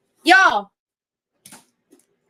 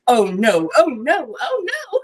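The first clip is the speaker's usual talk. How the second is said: building mock panic. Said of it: "I'm like".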